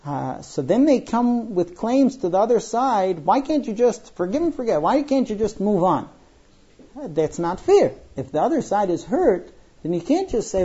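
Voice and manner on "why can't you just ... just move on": higher-pitched mock exasperation; imitated complaint. Spouse making claims to the hurt side, mock exasperated. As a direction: plead like a put-upon spouse.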